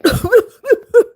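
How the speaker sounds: high, loud mock sputter; comic choking noise, half laughing; imitated choking. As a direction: act out choking on pool water. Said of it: "I'm choking".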